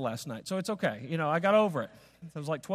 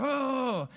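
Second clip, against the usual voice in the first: drawn-out, higher-pitched mock groan; imitated anxious "ohh"; exasperated groan; 8 semitones higher than usual. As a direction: groan as if the flight just got cancelled. Mimics anxious groan at cancelled flight.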